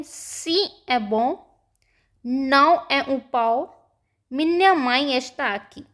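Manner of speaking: practice sentences with सी, बों, नाओ, पाओ and माई nasalised; careful model reading, सी, बों, नाओ, पाओ, माई sent through the nose; spaced-out phrases with nasal vowels in सी, बों, नाओ, पाओ, माई; nasal sound practice. Shown as a demonstration. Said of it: "sentences की practice कर लेते हैं".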